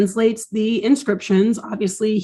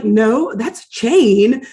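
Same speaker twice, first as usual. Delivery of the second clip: louder, drawn-out correction; Chip correcting; 4 dB louder, slower than usual. Retold or imitated. Chip rejecting another supposed clue, emphatic mock correction. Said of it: "but Chip is like".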